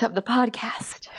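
playful hushed whisper, slow; mock whisper. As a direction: whisper it like a juicy secret. Mock secret about shy friend.

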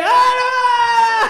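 mock toddler squeal, very high and loud; piercingly high baby-talk outburst; toddler butting in. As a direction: imitate a little kid loudly jumping in. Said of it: "He'll be like".

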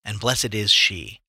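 slow scripture line leaning on "is"; odd stress on IS. A narrator's reading. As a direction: draw out "is" with unexpected weight. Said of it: "these odd enunciations".

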